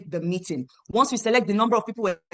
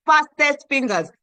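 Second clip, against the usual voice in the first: "Fastest fingers" louder, slower and higher; emphatic repeat; 4 semitones higher, 5 dB louder, slower than usual. Shown as a demonstration. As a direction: punch "Fastest fingers" like a sales call. Urging buyers to hurry.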